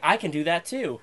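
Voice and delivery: mild mock brag; bold boast. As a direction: announce it proudly to the friend. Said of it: "it was more like".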